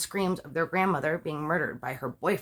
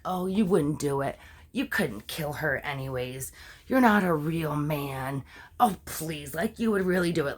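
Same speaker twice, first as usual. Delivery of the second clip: put-on taunting teen; 5 semitones lower than usual. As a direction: goad him with a lazy, low sneer. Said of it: "saying things like".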